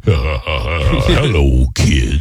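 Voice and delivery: deep, slow spooky host voice; a ghostly Disney ride announcer greeting; haunted house voice. Retold or imitated. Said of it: "that haunted house voice from Disney World".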